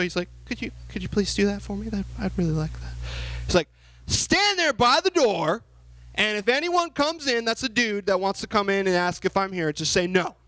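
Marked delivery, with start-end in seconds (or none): 0.4-2.9 mock polite. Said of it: "Do you think he said that in a very nice way?". 4.1-10.4 bossy order. Retold or imitated. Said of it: "so he's bossing her around".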